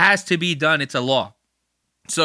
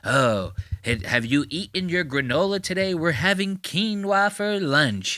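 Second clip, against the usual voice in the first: whiny liberal. Retold or imitated. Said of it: "the wannabe pussy liberal impression".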